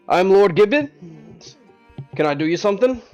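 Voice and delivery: a lightly voiced scheming lord; mustache twirling villain. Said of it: "twirling his mustache".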